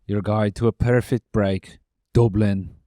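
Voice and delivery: attempted Irish accent; lightly put-on Irish brogue. Reading a Dublin travel slogan in a mock Irish accent. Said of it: "do an Irish accent".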